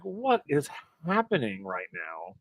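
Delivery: slow, hushed bewilderment; retold tearfulness. Host recalling tears in her eyes, choked up. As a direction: imitate fighting back tears, softly and slowly. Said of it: "tears in my eyes".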